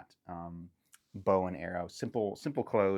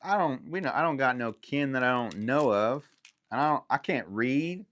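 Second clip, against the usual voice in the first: bandit; 6 semitones higher, 6 dB louder than usual. Acted. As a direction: lay down the law like a rough toll-keeper. GM voices a bandit.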